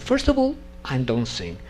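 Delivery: mock outraged refusal at dawn; indignant refusal. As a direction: refuse each point in outrage.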